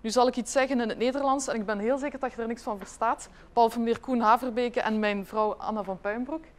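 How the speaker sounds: quick Dutch sample for a foreign audience; showing the room how Dutch sounds, in Dutch; speaking Dutch. Shown as a demonstration. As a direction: rattle off a Dutch sentence so they hear the language. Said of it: "I don't know if you know how it sounds".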